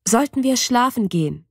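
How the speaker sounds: firm, emphatic announcement; firmly announcing to the friends it's bedtime. A narrator's reading. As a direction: state it with insistence. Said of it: "verkünde ich mit Nachdruck".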